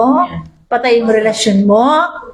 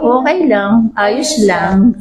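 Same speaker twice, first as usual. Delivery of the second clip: laughing it off; 4 semitones lower, much slower than usual. Retold or imitated. Mimicking people hiding their problems.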